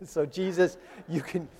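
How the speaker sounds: mock gloating through a laugh; laughing told-you-so. Peter gloating at Jesus, laughing and passive-aggressive. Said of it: "That's passive-aggressive".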